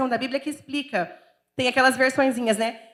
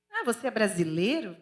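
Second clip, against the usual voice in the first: mock dismissive, low and soft; imitated disdain; 3 semitones lower, 6 dB quieter than usual. Portuguese locals snubbing a Brazilian, imitated disdain. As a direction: look down on them, mimicking a snub. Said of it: "com o maior descaso".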